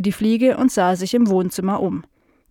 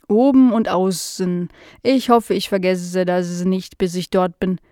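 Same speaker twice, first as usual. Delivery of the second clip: forgetful housefly. Acted. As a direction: confess vaguely, drawing the words out. Fly character speaking.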